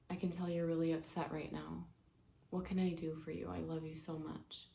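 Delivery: tender reassurance. Acted. Mother to her upset daughter on an airplane, tender and soft. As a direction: gently comfort someone who is upset.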